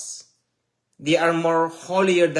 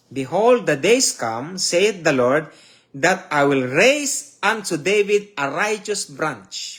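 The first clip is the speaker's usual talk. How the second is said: solemn scripture reading; 4 dB louder than usual. Acted. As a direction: proclaim the prophecy as God's own words. Preacher reads scripture aloud.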